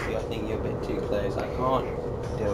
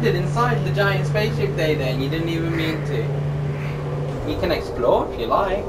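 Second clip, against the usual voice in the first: much higher, louder cheering; excited praise; 7 semitones higher, 5 dB louder than usual. Real, not acted. Parent cheering Day Day for landing inside the spaceship, high and loud.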